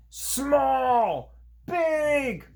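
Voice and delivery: very high, loud creature shouts; creatures yelling. Acted. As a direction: hurl the words at the other side.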